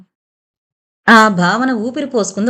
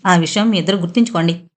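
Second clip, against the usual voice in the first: lower, firm weight on "ఆ విషయం మీ ఇద్దరు గుర్తుంచుకోండి"; firmly stressed words; 4 semitones lower than usual. A narrator's reading. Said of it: "చివరి మాటలు గట్టిగా ఒత్తి పలుకుతూ". ("గుర్తుంచుకోండి" గట్టిగా ఒత్తి పలుకుతూ)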